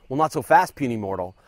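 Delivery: lightly voiced taunting overlord; mock villain voice.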